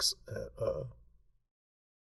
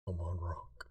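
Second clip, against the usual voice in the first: whisper; 3 semitones lower, 4 dB quieter than usual. Real, not acted. GM urging dice roll.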